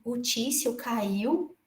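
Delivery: very slow, soft, stunned repeat; hearing the harasser fell, stunned and quiet; disbelieving echo. Retold or imitated. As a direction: hold back the astonishment as you echo it. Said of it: "Eu falei assim".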